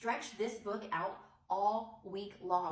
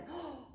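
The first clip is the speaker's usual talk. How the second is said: gasp; 6 semitones higher, 9 dB quieter than usual. Shown as a demonstration. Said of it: "I would ask them".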